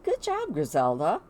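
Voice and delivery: lightly acted praise from a dad; proud dad. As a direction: pretend fatherly pride, opening high. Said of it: "the speaker is being a great dad".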